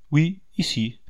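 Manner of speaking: a touch of a smile; smiling reply. A narrator's reading. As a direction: answer with a slight smile in the voice. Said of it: "répondit en souriant le général".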